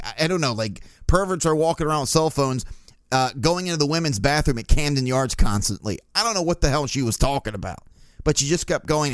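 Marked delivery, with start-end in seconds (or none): none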